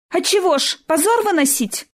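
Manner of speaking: put-on a girl's voice flaring up high; heated outcry. Girl hotly defending her choice to die, high outcry. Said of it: "запальчиво выкрикнула девушка".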